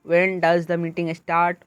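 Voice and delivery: slow, deliberate question with stress on "start"; rising intonation. Shown as a demonstration. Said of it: "स्टार्ट पे".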